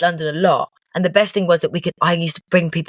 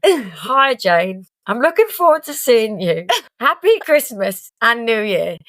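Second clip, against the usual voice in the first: high, slow fake-poorly voice; a friend rehearsing his sick message aloud, mock poorly; fake sick rehearsal; 5 semitones higher, slower than usual. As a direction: rehearse sounding ill. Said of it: "Okay, John".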